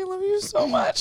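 high-pitched, mock-lovestruck gush; gushing declaration. Retelling falling for an ex after making out, gushing.

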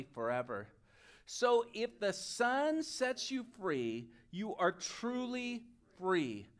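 measured, evenly phrased scripture reading; deliberate recitation with clear pauses; group verse recitation. Real, not acted. Leads congregation reciting memory verse.

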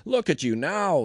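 high, loud mocking call; jeering yell. A narrator's reading. Passers-by abusing Jesus on the cross, jeering yell. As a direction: yell it in mockery. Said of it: "they yelled at him".

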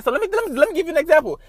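fired-up, half-joking sermon; emphatic rant. Real, not acted. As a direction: preach it with gusto.

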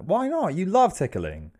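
high-pitched, incredulous coaxing; baffled protest. Acted. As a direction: act the friends' puzzled disbelief up high. Friends voiced, baffled at the refusal.

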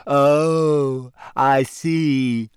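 sulky, deflated ghost voice; gloomy ghost girl; morose. A narrator's reading. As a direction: let it drop, put out. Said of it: "in a morose sort of way".

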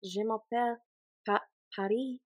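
a hint of a French accent on "Je m'appelle". Shown as a demonstration. Testing a French accent, a hint of French. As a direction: lightly try out French. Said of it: "How do you do a French accent".

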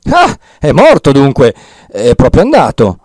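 exclaiming. Acted. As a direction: exclaim it out loud with relief. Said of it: "esclamò Don Abbondio".

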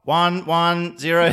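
slow, high, loud Dalek voice; robot voice. Shown as a demonstration. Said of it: "Say it like a robot".

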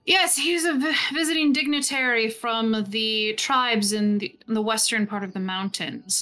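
an unhurried, calm lord's reply. Acted. Lord Desternus answers Feldspar's probing, very calmly. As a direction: answer coolly, unruffled by the jab. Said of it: "says very calmly".

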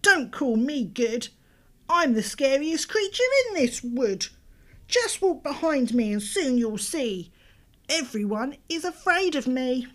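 little mouse voice. Acted. Mouse voice in read story.

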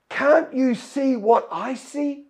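servant's baffled question. Acted. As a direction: ask it as if the other is blind to the danger. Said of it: "And the servant says".

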